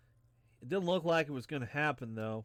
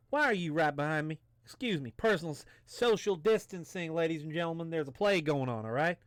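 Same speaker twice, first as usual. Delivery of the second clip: higher-pitched, put-out protest; indignant complaint; 4 semitones higher, 3 dB louder than usual. Acted. Traveler telling crowd to social distance, indignant. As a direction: scold someone for standing too close.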